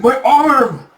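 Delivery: high, loud cry of pain; acted shriek of a wounded bandit; agonized scream. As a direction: scream as if maimed. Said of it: "he screams".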